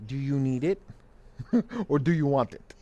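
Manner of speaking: put-on dad's thick Arab accent, asked as a stern question. Dad quizzing his son in a thick Arab accent. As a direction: imitate dad's Arab accent, a laugh breaking in. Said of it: "in his thick Arab accent".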